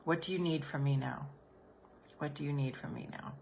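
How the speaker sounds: soft, caring questions, fading; quiet What do you need from me now; gentle question. Shown as a demonstration. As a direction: ask the hurt kindly. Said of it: "you're gonna say".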